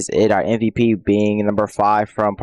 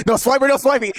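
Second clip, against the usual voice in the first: Dora voice; 12 semitones higher, faster than usual. Pretend. Quoting Dora cartoon, higher.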